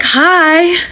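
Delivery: high squeaky mock hi; mimicking Teddy. Imitating Teddy greeting her awkwardly, high squeak. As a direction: squeak a timid hi.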